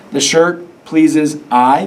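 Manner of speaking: slow, rising, doubtful "The shirt pleases I"; deliberately wrong version. Shown as a demonstration. Teacher to class, testing the wrong pronoun slowly. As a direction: stretch "pleases I" as a questionable try. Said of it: "we don't say the shirt pleases I".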